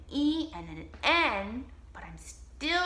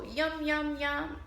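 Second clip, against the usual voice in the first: monster yum; 4 semitones higher, slower than usual. Pretend. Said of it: "she'll go".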